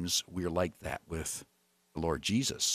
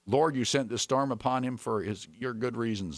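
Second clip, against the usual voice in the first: pleading; 7 semitones higher than usual. A narrator's reading. Sailors begging the Lord to spare them, pleading. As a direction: beg in a high voice, gradually settling. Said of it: "they pleaded".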